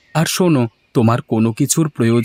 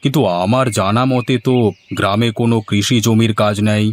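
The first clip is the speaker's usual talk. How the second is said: a lightly lowered voice for the village headman; a curious old headman stopping a farmer, only slightly deeper; 3 semitones lower than usual. Acted. Headman calls out to Gopal with the cow, lightly lower voice.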